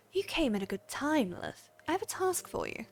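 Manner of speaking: put-on a light American accent for the guildmaster. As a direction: read the guildmaster's orders in a mild American accent. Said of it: "I can do the American accent again".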